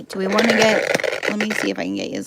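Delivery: talking while crunching; crunching chips. Real, not acted. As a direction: speak through a crunchy mouthful. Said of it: "I'm sorry for the crunching".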